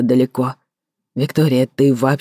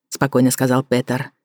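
plain reading voice

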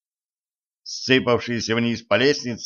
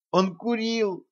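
high-pitched exclamation; 11 semitones higher, 3 dB quieter, slower than usual. A narrator's reading. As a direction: blurt it out much higher. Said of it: "воскликнула Женька". (высокое изумлённое восклицание)

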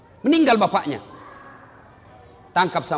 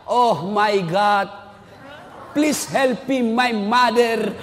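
slow drawn-out mock prayer in English, then a shout; hammed-up plea of a modern child at a parent's grave; mock pleading child; 3 semitones higher, much slower than usual. Preacher mocks a child praying for his mother, drawn-out pleading.

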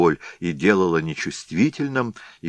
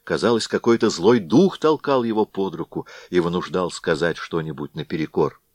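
ordinary delivery, nothing marked

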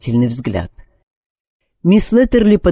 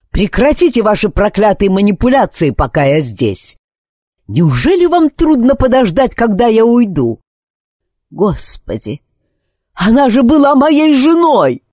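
furious grief; 8 semitones higher than usual. A narrator's reading. Husband rails at the nurse, furious and grieving. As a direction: yell at the nurse in helpless rage.

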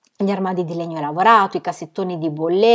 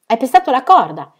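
a bright laughing call, a little louder and higher; laughing shout; 5 semitones higher, 8 dB louder than usual. Acted. Aunt laughing at her daughter for stepping on the rope. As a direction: crow it out, amused. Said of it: "gridò ridendo".

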